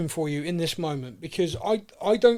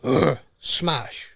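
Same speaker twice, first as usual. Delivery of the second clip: lightly grunted monster impression; Hulk; much slower than usual. Co-host imitates Banner's Hulk in the first movie, light grunting. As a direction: grunt it out in short, mindless bursts. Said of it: "when Banner's the Hulk in".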